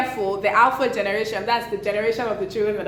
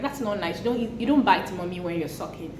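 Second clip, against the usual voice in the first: put-on gentle correction to a baby; 3 semitones lower, 4 dB quieter than usual. Shown as a demonstration. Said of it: "you can talk to it like".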